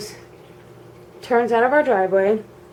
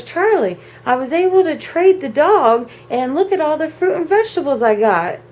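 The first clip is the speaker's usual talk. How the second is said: lightly voiced, higher, pleased mother; higher-pitched, self-satisfied retelling; proud mom, imitated; 6 semitones higher than usual. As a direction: show off the haul to husband. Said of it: "she was so proud of herself".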